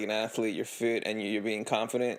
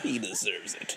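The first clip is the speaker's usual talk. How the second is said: a softer, lower, conspiratorial hush; playful whisper; 8 semitones lower, 6 dB quieter, slower than usual. Pretend. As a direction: whisper along with the joke. Friend joins the mock whisper.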